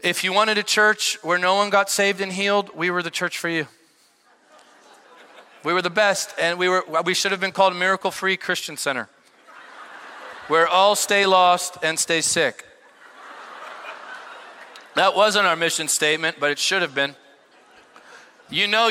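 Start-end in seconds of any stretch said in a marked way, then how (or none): 5.6-12.7 laughing. Real, not acted. Self-mocking joke about his church.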